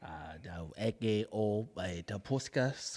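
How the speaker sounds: low, soft fake Spanish in an African-like accent; halting, hushed gibberish in an African-tinged accent; botched African-sounding accent. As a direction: mumble mock Spanish with a wandering African accent. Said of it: "it was African".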